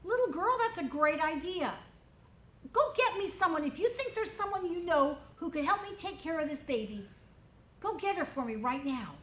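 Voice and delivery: a hint of a commanding princess. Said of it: "And the princess said".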